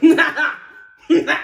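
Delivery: loud mock laugh, "nah, nah"; imitated inappropriate laughing. Host mimicking a drunk man laughing while people cry, mock laugh. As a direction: mimic someone cackling while others cry. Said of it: "he's like".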